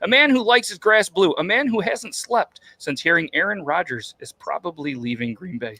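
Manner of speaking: emphatic mock-grand introduction, easing off at the end; announcer intro. Host hyping the guest with jokes, announcer intro. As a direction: proclaim each line like an emcee.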